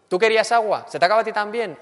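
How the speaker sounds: loud, high mock-sweet sarcasm; ironic. Grumbling sibling mocking the family as they serve water, sarcastic and loud. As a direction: needle them with fake kindness, pitched high. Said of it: "Ironía".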